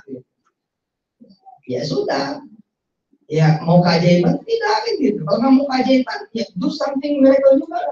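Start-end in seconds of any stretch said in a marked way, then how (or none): 4.4-6.2 rising fervour. Real, not acted. Preacher rousing the audience. 6.4-7.8 high and lifted, the word miracle rising; fervent high call. Shown as a demonstration. First, fervent take of the line.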